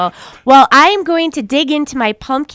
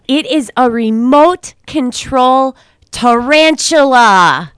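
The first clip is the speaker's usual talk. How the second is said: slow, louder prize announcement; excited reveal; 5 dB louder, slower than usual. Acted. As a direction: draw out the big reveal.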